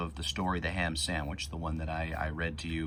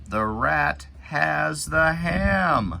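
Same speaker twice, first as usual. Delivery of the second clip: high, loud excited reading; slow excited storybook exclaim; exclamation; 9 semitones higher, 7 dB louder, much slower than usual. Shown as a demonstration. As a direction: make the exclamation pop, higher and louder. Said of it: "Exclamation mark at the end".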